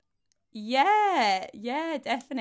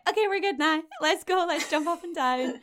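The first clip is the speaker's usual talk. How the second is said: eager, excited quote; 8 semitones higher, 4 dB louder than usual. Retold or imitated. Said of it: "and then you're like".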